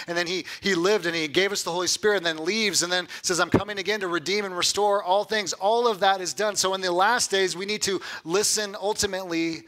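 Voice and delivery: impassioned preaching. Acted. Preacher telling of Jesus coming again, impassioned. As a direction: preach it with rising urgency. Preacher building to his point.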